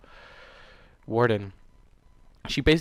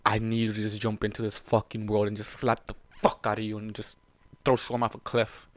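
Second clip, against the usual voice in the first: ordinary delivery, nothing marked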